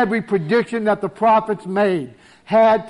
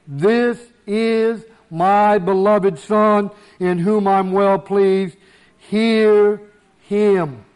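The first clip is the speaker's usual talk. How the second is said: slow, lightly boomed voice of God; booming voice of God; 3 dB louder, much slower than usual. Acted. Preacher quoting God from the cloud, mildly booming and slow. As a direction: draw out each word with weighty authority. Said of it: "in a booming voice".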